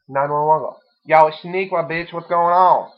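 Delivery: loud, brassy mock operator; mock 911 operator. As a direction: play a sassy dispatcher. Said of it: "call nine one one and be like".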